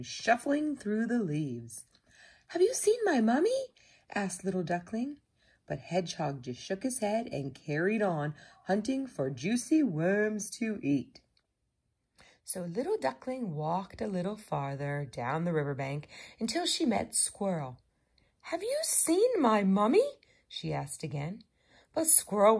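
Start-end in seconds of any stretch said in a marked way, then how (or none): 2.5-3.7 high, quick little duckling voice; little lost duckling. A narrator's reading. Little duckling asks Hedgehog for mummy, high and pleading. 18.4-20.1 high-pitched little duckling question; little lost duckling. A narrator's reading. Little duckling asks Squirrel for mummy, high and pleading.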